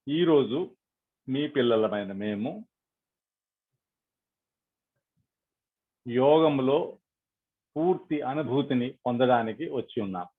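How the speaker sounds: measured prayer with long pauses between phrases; led prayer. Acted. Meditation leader addressing Sri Mataji for blessing, prayerful. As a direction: pray aloud, phrase by phrase.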